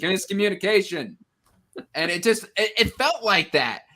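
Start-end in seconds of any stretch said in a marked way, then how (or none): 0.0-1.2 mock announcement. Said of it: "just been like".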